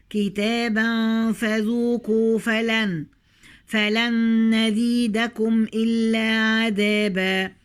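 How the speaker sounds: slow tajweed chant with long held vowels; Quran recitation. Shown as a demonstration. Teacher recites the verses to the students, slow chant. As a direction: stretch every madd like a reciter.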